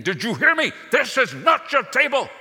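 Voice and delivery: put-on high, loud furious German accent; angry German accent. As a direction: shout it down in a heavy German accent. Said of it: "in a heavy German accent".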